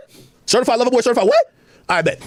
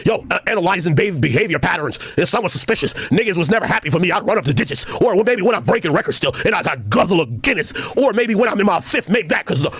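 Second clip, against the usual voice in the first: reciting a rapper's lyrics; 6 semitones lower than usual. Acted. Quoting a rapper's diss lyrics, in a lower voice.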